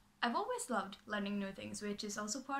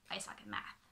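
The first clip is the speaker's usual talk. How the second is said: whisper confession; 2 semitones lower, 8 dB quieter than usual. Real, not acted. Confessing a weakness after a brag.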